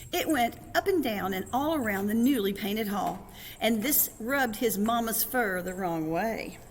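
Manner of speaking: put-on lilting read-aloud to children; story narration. A narrator's reading. Reader tells children of a kitten's wall drawing, lively narration. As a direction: roll the story along with a bouncy lilt.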